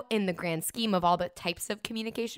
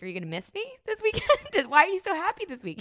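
mock interrogation; 11 semitones higher, 3 dB louder than usual. Retells partner's suspicious teasing questions.

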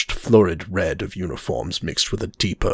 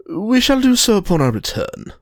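Reinhardt voice; 11 semitones higher than usual. Acted.

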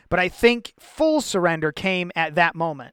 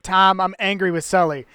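louder, laughing squabble; laughing mock message; 5 dB louder than usual. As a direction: pass the message while cracking up. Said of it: "So it's like".

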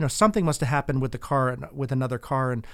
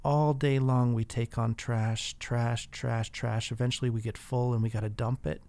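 softer, lightly attempted Jamaican accent; bad Jamaican accent; 3 semitones lower, 4 dB quieter, slower than usual. Jamaican driver explaining himself to his passenger, in a softly faked Jamaican accent. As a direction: imitate a Jamaican driver's accent, badly and quietly. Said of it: "a horrible Jamaican accent that I'm gonna use".

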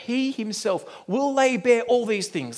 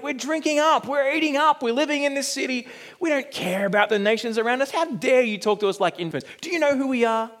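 mocking Israel's voice; 3 semitones higher than usual. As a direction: sneer like smug people dismissing a prophet. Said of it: "basically saying".

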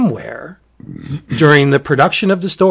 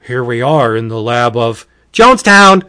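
louder, stiff dubbed-movie line; bad dubbing voice; 2 semitones lower, 6 dB louder than usual. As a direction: mimic badly dubbed dialogue. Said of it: "it's almost as if it's bad dubbing".

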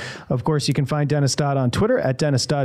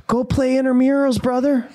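higher-pitched mock exasperation; imagine him fed up and dismissive, pitched up; exasperated; 8 semitones higher than usual. Host imagining the frustrated guest's put-down, exasperated. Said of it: "just the tone of his voice".

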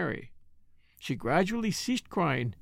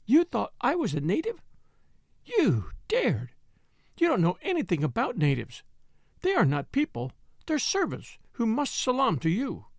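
a touch of rising rage and humiliation; 5 semitones higher than usual. Acted. Mary raging at the maid, a touch of fury. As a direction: let the humiliated fury spill over. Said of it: "did not even try to control her rage".

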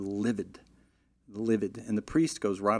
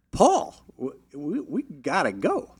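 urgent call; 6 semitones higher, 4 dB louder, slower than usual. Retold or imitated. Urging groom to leave.

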